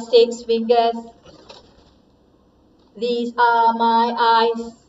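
flat, even robot voice. Shown as a demonstration. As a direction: speak like a toy robot, monotone. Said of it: "now you have to change your voice with your voice robot".

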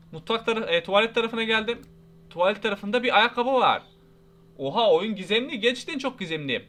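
usual speaking voice

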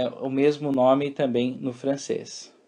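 ordinary talk, nothing marked

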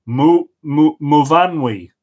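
Muvanwi with the middle syllable Van stressed; halting start, then Muvanwi punched on Van. Shown as a demonstration. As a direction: sound out Muvanwi, leaning on Van. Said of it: "with the emphasis on Van".

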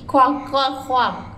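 put-on bright duck quacking for a toddler; duck quacks. Shown as a demonstration. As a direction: quack it out playfully. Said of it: "What did the duck say?".

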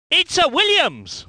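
lifted, exclaimed car name; excited identification. Acted. Commentator spotting a Williams, excited call.

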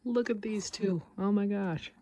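excited. Real, not acted. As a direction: gush over the screen. Delighted at the movie.

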